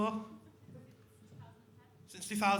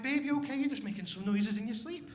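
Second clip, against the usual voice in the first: caring; 4 dB quieter than usual. Retold or imitated. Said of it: "you'll be all supportive".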